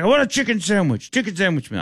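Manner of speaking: high insistent mock Indian accent; demanding Indian accent. Drunk passenger demanding chicken sandwich, Indian accent. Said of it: "throws a temper tantrum".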